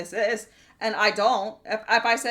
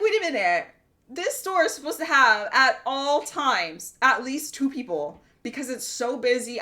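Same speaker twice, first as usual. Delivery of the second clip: retold protest to the district manager, mildly heated; indignant rant. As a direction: demand an answer from the manager.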